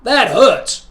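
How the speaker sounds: high piercing pain scream. A narrator's reading. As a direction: scream after kicking the post.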